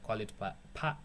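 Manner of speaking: stumbling on "pa-, pa-"; tongue-tied. Real, not acted. Tutorial host fumbling a name for viewers, tongue-tied. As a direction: trip over "pa-", restarting the syllable and breaking off. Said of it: "Fat tongue, really fat tongue".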